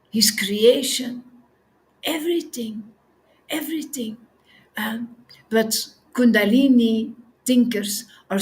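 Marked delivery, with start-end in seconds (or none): 3.5-4.2 whisper. Shown as a demonstration. Repeated word, now whispered.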